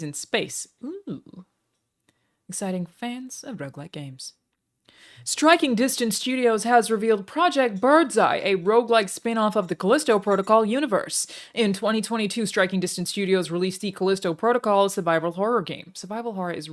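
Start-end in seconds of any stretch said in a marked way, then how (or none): 5.2-16.7 put-on American-accented article read-out. Streamer reads game news to viewers, American accent. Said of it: "really hard to say in an American accent".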